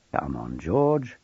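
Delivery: slow, gentle coaxing; softly coaxing. A narrator's reading. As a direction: draw the boy out gently. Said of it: "Maxwell said softly".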